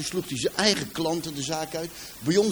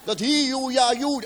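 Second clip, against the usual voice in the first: mock Brabant dialect; 8 semitones higher than usual. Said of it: "dat leek wel Chinees".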